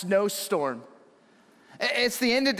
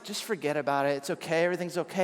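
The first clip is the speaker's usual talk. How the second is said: calm reassuring wife; 4 semitones lower, 4 dB quieter, much faster than usual. Retold or imitated. Wife calming husband after windshield cracks, soft reassuring. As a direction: lower and softer, soothing him down. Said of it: "And my wife's like".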